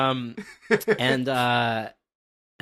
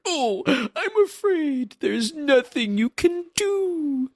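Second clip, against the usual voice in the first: gloating villain; much slower than usual. Acted. Villain gloating over loudspeaker.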